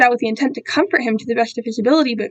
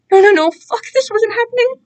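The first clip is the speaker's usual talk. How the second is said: panic; 9 semitones higher than usual. Acted. Panic as captor approaches.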